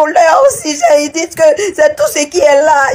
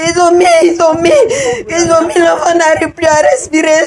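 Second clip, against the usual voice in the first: crying. Real, not acted. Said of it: "cette dame qui est en train de pleurer".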